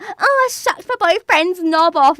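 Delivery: loud mock brag; put-on loud bragging voice; bragging friend. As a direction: imitate an obnoxious friend boasting.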